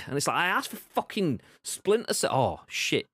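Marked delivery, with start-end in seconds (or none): 0.4-2.3 mock frustrated gamer. Fed-up gamer voiced at Ubisoft.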